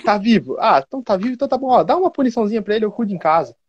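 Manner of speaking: high breezy mother, fast; unbothered mother. Retold or imitated. Busy mother brushing off the principal's call, high and breezy. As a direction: rattle it off carelessly, high.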